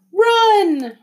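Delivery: high, loud, drawn-out cry; stretched, high-pitched shout; retold urgent yell. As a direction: replay hollering to flee. Retelling own cry to run.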